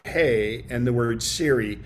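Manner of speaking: "Hey" said alone, a clear pause, then "Siri,"; Hey and Siri kept apart. Shown as a demonstration. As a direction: keep "Hey" and "Siri," apart, never run together. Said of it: "that's how I say it".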